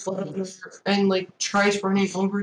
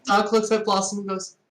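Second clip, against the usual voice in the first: ordinary talk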